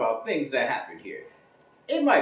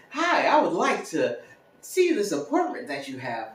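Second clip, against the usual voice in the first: mock-proper phone voice, pitched up at first; white voice; 5 semitones higher than usual. Renter phoning about an apartment, white voice. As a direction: put on a polite white voice. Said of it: "have the white voice".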